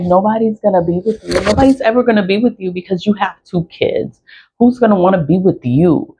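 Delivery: lightly mimicked belittling rant; imitating belittling ex. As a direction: rattle it off like a scornful partner. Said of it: "that's how he talks".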